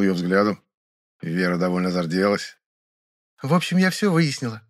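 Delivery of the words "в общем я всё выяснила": put-on raised, bright girlish voice; Vera, pleased with herself; joyful girl. A narrator's reading. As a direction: proudly report good news. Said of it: "радостно сказала она".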